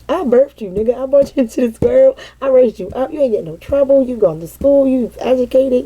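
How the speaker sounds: retold outrage, pitched a little up; indignant retort. Mother retelling her comeback to her son, mock-indignant. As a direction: rattle off a wounded mother's protest, half amused by the end. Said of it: "we had a heated argument".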